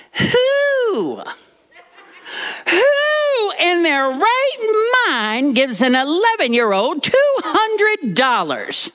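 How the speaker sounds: put-on high, slow, scandalised old lady; horrified granny. Grandmother appalled at the boy's two hundred dollars, high slow disbelief. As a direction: shriek it in disbelief, slowly. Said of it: "Granny was horrified".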